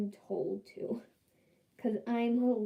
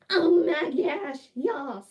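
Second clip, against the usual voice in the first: much higher, louder, slow gushing yes; excited squeal; 6 semitones higher, 8 dB louder, slower than usual. Retold or imitated. Princess accepting the prince's date, squealing excitedly. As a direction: squeal with delight.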